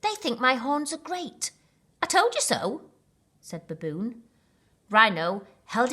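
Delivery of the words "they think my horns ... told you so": excited. Acted. Excited animals.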